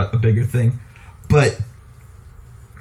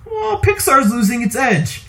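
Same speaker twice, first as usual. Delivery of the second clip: higher, slow, smug mock complaint; mock know-it-all; 8 semitones higher, slower than usual. Mocking people who say Pixar is slipping, higher and smug. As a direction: drag it out like a snooty critic. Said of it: "people are constantly like".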